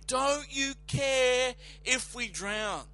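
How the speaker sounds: slow, whining accusation; a mild mock accusing whine; accusing fishermen. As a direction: plead like terrified fishermen. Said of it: "fear-stricken fishermen accusing him".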